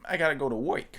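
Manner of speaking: lightly voiced Penguin villain; a touch of a squawky mobster; penguin accent. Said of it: "that's my penguin accent".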